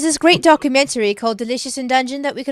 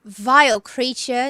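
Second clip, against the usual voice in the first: disgusted character voice; 9 dB louder, slower than usual. Acted.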